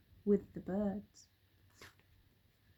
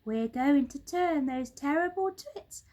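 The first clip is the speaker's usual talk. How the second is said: higher, slow steadying voice; monkey father calming; 9 semitones higher, 5 dB louder, slower than usual. A narrator's reading. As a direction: settle the excited children. Mugglewump announces plan.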